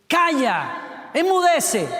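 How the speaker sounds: booming order over the storm; commanding shout. Acted. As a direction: command the sea to be still. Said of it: "Jesús caminando sobre las aguas".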